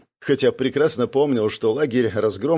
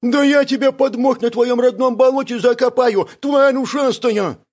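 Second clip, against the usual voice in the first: higher, louder furious threat; angry threat; 12 semitones higher, 5 dB louder than usual. Acted. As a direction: threaten him with full fury. Friend threatens in a quarrel. (яростная угроза, выше и громче)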